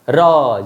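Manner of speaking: र with a trilled, vibrating tongue; trilled r demo. Shown as a demonstration. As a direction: roll the र so the tongue shakes. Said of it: "जब र बोलते हो तो जीभ हिलने लगती है". (जीभ कंपाकर र बोलना)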